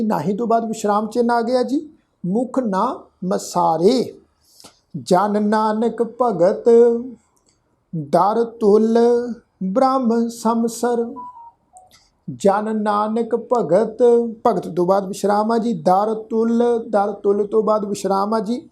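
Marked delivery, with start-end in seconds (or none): 5.0-14.0 slow, measured recitation of scripture. Shown as a demonstration. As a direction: lay out each word slowly so learners can follow. (धीमा, ठहरा हुआ पाठ)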